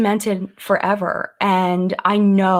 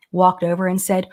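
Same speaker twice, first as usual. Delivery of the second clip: usual speaking voice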